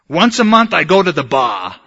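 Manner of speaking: a hint of a feisty Bronx woman; light Bronx accent, quoting a tough friend. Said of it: "Bronx accent young lady".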